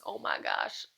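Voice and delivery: whispered, almost no voice; breathless whisper. Real, not acted. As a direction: gasp it out in a whisper. Stunned reaction to book ending.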